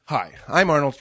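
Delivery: hint of an Austrian accent; slipping into Austrian accent. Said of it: "you have an Austrian accent in bits and pieces".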